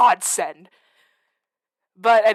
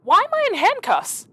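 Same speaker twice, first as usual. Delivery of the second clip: sudden high-pitched shock at the handcuffs; startled alarm; 13 semitones higher, 5 dB louder than usual. Real, not acted. Player waking up handcuffed, in high startled alarm. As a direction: jolt up in alarm, louder.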